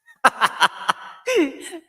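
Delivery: loud high-pitched laugh; high burst of laughter. Real, not acted. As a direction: let out a big squealing laugh. Laughing at own pun.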